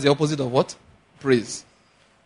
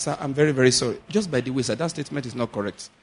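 polite reply; 5 dB quieter, faster than usual. Shown as a demonstration. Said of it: "explain to him nicely".

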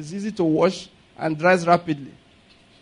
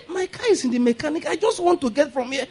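laughing retelling; 8 semitones higher, 4 dB quieter than usual. Retold or imitated. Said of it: "I said".

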